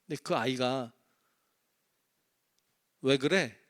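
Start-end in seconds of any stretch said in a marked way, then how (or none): 3.0-3.6 put-on a touch of a snotty child's retort; rude kid reply. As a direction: lightly mimic a rude kid talking back. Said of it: "이렇게 얘기하면". (버릇없는 아이 말투 살짝 흉내)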